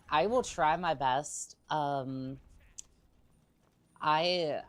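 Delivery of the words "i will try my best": put-on cute anime girl voice. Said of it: "with a cute anime girl voice".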